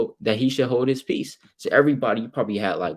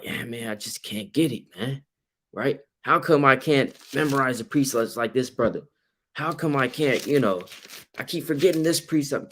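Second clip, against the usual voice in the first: frustrated believer; 4 semitones higher than usual. Retold or imitated. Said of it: "you're just like".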